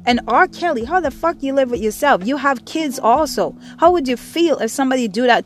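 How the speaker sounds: angry rant. Real, not acted. Host berates R. Kelly for abusing girls, angry. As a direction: demand answers with real anger. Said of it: "I am so mad".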